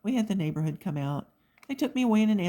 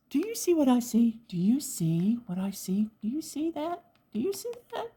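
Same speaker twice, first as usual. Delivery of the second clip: excited sing-song; 7 semitones higher than usual. Real, not acted. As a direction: tease the viewers with rising glee. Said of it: "calling to viewers excitedly".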